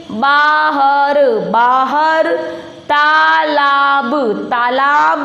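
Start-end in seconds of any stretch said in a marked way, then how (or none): 0.1-1.2 बाहर stretched slowly, each sound held; syllable-by-syllable reading. Shown as a demonstration. Teacher reads along with pupils, बाहर sounded out slowly. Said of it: "तो पढ़ो". 2.8-4.1 तालाब chanted slowly in long syllables; syllable-by-syllable reading. Shown as a demonstration. Teacher reads along with pupils, तालाब sounded out slowly. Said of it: "तो पढ़ो".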